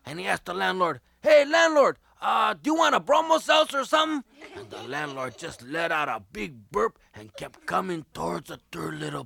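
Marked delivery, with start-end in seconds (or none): 1.2-4.2 nervous stalling. Acted.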